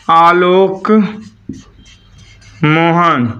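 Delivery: आलोक, then a long pause, then मोहन; word by word. Shown as a demonstration. Teacher showing vowels to students, spaced-out आलोक, मोहन. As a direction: say आलोक and मोहन slowly as separate words. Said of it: "देखो ओ आया".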